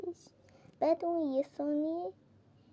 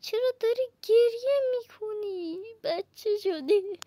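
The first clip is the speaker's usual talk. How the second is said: higher, mock-scolding tease; teasing; 6 semitones higher than usual. Real, not acted. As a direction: needle him like a crybaby. Teasing a crying game character.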